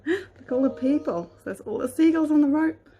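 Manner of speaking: gasping with delight; high, thrilled pointing out; excited. Real, not acted. Excited gasp at the picture.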